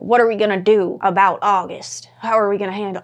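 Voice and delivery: a hint of a Southern American accent; mildly Southern-accented villager. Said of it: "I don't know why I gave them a Southern accent".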